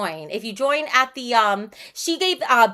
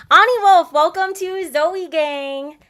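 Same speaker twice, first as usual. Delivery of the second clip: excited welcome; 6 semitones higher, 7 dB louder, slower than usual. Real, not acted. Welcoming a new member on stream.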